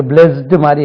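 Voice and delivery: "blessed" as "blezdu", voiced at the end; spelling-based d ending. Shown as a demonstration. Teacher showing how the spelling misleads, "blessed" ending in voiced d. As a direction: say "blessed" with a d, as it looks. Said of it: "பார்த்தா டி இருக்கு".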